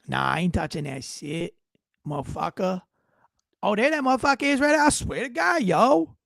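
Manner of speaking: imitating street slang, lightly voiced; mock hood talk. Host mocking the white officer's street talk, lightly imitated. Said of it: "he's talking hood".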